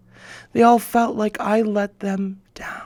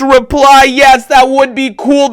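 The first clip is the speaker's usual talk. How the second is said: excited; 6 semitones higher, 8 dB louder than usual. Retold or imitated. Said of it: "I was like".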